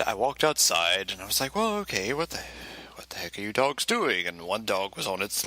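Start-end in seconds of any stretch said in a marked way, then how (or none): 1.5-4.3 high, baffled start that drops back; retelling confusion at the dogs; mock puzzlement. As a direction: react like you can't believe it.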